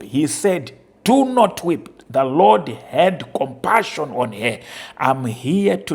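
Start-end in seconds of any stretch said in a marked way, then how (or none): 1.0-1.9 raised, higher, louder pleading; Jesus comforting the widow. Acted. Preacher voicing Jesus to the grieving widow, loud and pleading. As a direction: call out a tender command not to weep.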